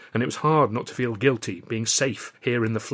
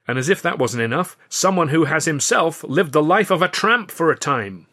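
louder, higher producer's address to the crew; Burstein's speech; 5 semitones higher, 6 dB louder than usual. Acted. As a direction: pitch the new series to the room like a showman. Burstein nears the reveal.

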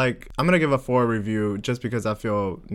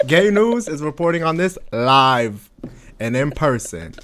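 mock news anchor. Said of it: "This is the gay news segment".

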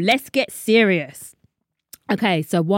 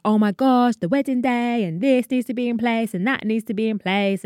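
mock frantic; 4 semitones higher than usual. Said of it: "yeah, it was a bit mad".

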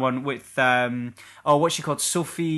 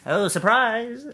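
slow mock surprise; 7 semitones higher, much slower than usual.

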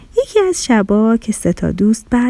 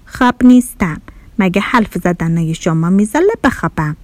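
sluggish; 3 semitones lower than usual. Acted. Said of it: "با بیحالی گفت".

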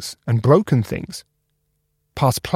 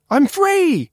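high, joyful cry of freedom; happy yell. Acted. Cap bursting with joy at being freed. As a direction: shout it out with glee. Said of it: "Cap yelled happily".

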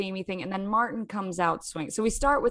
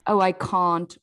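put-on South African accent; 5 dB louder, slower than usual. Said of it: "the A's are still accents".

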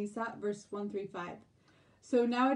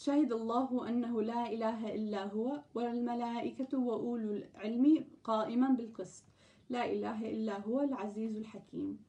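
fast, fluent Arabic verse reading; brisk scripture recitation in Arabic; Quran recitation; much faster than usual. Acted. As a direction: rattle through the verse in one breath.

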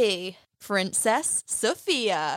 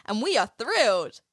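put-on Texas accent; 3 semitones higher than usual. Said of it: "she's really good at that Texas accent".

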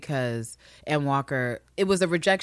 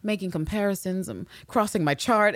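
higher, louder, flustered inner monologue; Ann Lister's inner voice; 7 semitones higher, 4 dB louder than usual. Retold or imitated. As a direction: play her panicking mid-grubble. Voicing Ann Lister's inner thoughts.

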